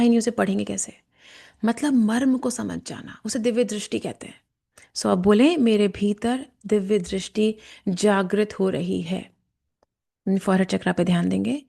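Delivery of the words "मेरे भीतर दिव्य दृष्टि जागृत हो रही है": slow, measured affirmation; guided affirmation. Shown as a demonstration. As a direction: state it slowly and deliberately, phrase by phrase. Leads a spoken affirmation.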